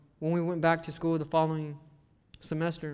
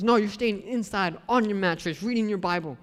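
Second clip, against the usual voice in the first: strict mom; 4 semitones higher, 3 dB louder than usual. Retold or imitated. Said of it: "And she goes".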